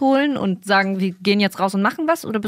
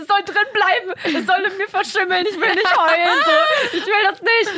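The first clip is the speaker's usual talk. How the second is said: higher, laughing whiny refusal; mock tearful protest; 11 semitones higher than usual. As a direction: laugh through a hammed-up refusal to cry. Refusing to cry, half laughing.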